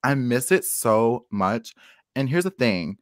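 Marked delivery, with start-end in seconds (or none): 0.0-1.7 slow, drawn-out mock longing; wistful longing. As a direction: stretch it out like you really miss it. Longing for the old wall.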